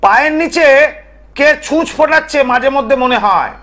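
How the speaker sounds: high, insistent warning; emphatic oratory. Real, not acted. Tantric warning viewers of night-time scratches, emphatic oratory. Describes occult attack to viewers.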